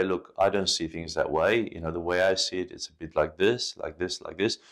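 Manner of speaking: soft, even, reasonable tone; calm fair-minded explanation; fair and kind. Pretend. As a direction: talk it through gently, no blame. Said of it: "Be fair and say".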